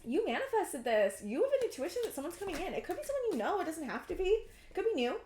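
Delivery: high, bright gush of excitement; rushing happily through the news; excited. Real, not acted.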